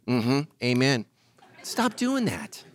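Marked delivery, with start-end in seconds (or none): 1.6-2.6 slow scold. Real, not acted. Scolding congregation.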